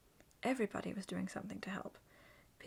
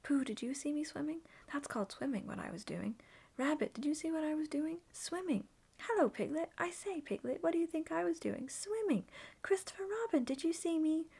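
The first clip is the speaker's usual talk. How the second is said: rising ever higher and louder; little Roo showing off, climbing higher; excited boasting; 7 semitones higher, 4 dB louder than usual. A narrator's reading. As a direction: tell everyone at once, breathless pride.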